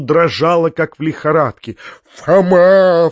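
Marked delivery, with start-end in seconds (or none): 2.2-3.1 loud frantic shout; desperate yell of the name; frenzied cry. A narrator's reading. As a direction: cry out beside yourself. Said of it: "вскричал дядя в исступлении".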